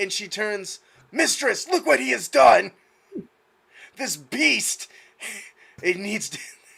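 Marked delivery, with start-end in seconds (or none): 1.1-6.4 outraged yell, higher and louder. Voicing a young girl bursting out of a confessional: shouting in outrage. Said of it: "starts shouting".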